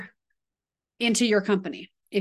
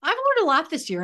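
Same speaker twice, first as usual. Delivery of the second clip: mock client apology; 13 semitones higher, 4 dB louder than usual. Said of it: "apologize to some of your clients and say".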